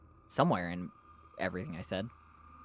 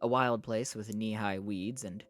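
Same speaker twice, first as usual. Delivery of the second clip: measured audiobook-style reading; story narration; 4 dB quieter than usual. A narrator's reading. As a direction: read it out as a novel's narrator. Reads a novel aloud.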